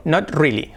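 "Not" with the O said like an A; vowel demo. Shown as a demonstration. Teacher demos "Not" with the O like an A. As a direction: open "Not" as a Spanish A. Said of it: "Not, la O como una A".

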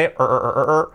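R repeated as er, er, er; isolated R sound. Shown as a demonstration. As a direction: curl back for each English R. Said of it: "la R".

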